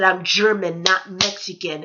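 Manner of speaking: slow, deliberate correction; insistent, drawn-out retort; emphatic correction. Retold or imitated. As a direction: separate the words to drive it home. Correcting the stranger, retold.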